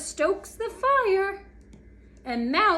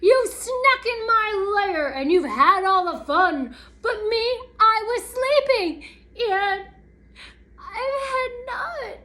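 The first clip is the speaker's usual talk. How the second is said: loud, high, aggrieved bear complaint; hammed-up storybook outburst; grumbling bear; 5 semitones higher, 4 dB louder than usual. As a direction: complain indignantly as a wronged bear. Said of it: "He growls and he grumbles".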